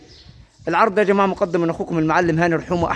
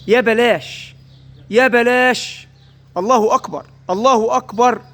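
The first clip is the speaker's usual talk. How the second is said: raised, excited market sales pitch; arabic street vendor cry; 3 semitones higher than usual. Acted. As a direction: call it out like a livestock seller hyping a bargain. Livestock seller hypes price, calls out. (نداء بائع في السوق بحماس)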